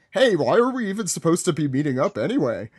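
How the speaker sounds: a fast, lightly voiced Long Island accent; a quick Long Island accent, mostly his own voice; Moly Povich voice. Friends ask him to try the Long Island Moly Povich voice, a quick, light Long Island accent. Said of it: "who's doing our, Moly Povich voice here?".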